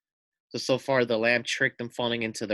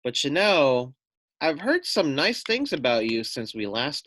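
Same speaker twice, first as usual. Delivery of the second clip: sly little lamb; 4 semitones higher, 4 dB louder than usual. Acted. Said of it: "said the lamb".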